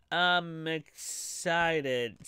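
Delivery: very slow deadpan "excited"; Luigi monotone. Acted. Voicing a bored character's fake excitement, deadpan monotone. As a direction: say it with zero enthusiasm. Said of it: "says Luigi in a monotone voice".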